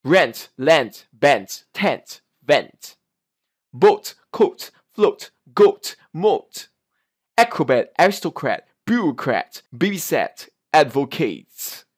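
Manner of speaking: word drill with crisp final T; each word finished on a sounded T; clear T sound. Shown as a demonstration. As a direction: release the T at the end of RENT, BOAT, ACROBAT. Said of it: "that belongs to T sound".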